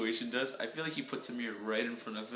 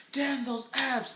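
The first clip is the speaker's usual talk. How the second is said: mock admiring gasp; 11 semitones higher, much slower than usual. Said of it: "everyone always goes like".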